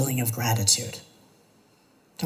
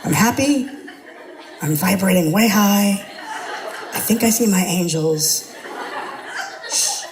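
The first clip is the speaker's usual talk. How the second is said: mock blissed-out snapping; 6 semitones higher than usual. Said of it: "And someone goes".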